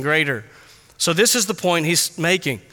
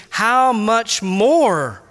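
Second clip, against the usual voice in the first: rising passionate cry; 4 semitones higher, slower than usual. Shown as a demonstration. Preacher urging the congregation, building to a passionate near-shout. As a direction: let the question swell toward a shout. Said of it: "We should hear the author's voice raising almost to the level of a shout with passion".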